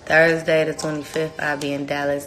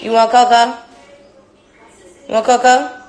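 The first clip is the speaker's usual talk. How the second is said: high, loud sing-song question; 8 semitones higher, 8 dB louder than usual. Real, not acted. Mother offering her baby cocoa, sing-song.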